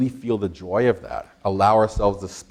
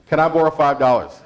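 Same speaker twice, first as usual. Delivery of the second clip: louder, more insistent ask; say it like you mean it; 4 semitones higher, 3 dB louder than usual. Shown as a demonstration. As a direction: push the request with energy. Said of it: "Say it like you mean it".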